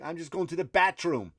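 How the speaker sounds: acted-out Irish-accented protest. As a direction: plead innocence with an Irish lilt. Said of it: "I just do it in an Irish accent".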